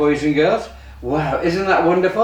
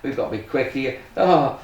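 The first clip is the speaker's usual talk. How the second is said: put-on kids party magician. Kids magic show patter.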